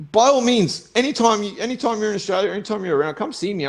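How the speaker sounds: daring them to come find him; open challenge. Real, not acted.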